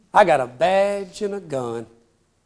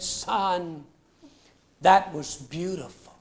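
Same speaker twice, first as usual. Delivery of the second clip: tearful widow; 3 semitones lower, 7 dB quieter, slower than usual. Retold or imitated. Weeping widow thanks him.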